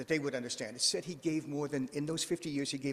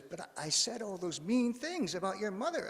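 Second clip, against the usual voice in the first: rising high in mock distress; acted-out guilty protest, voice climbing; remorseful protest; 7 semitones higher than usual. Farmer confessing his insults to Buddha, remorseful protest.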